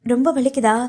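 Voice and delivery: mildly tearful concern; broken voice. Acted. Weeping sweetheart asking the patient about pain, slightly broken voice. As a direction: ask with a touch of pained worry. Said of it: "உடைந்த குரலே".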